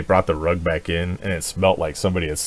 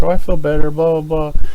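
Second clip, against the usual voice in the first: put-on high, light chirpy kid voice; mock chirpy kid; 9 semitones higher, 8 dB louder than usual. Recovered daughter announcing she's fine, chirpy. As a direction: brush it off breezily like a kid. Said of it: "she's like".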